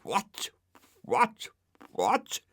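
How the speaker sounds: a rudely woken dog screeching in alarm. A narrator's reading. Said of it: "he screeched".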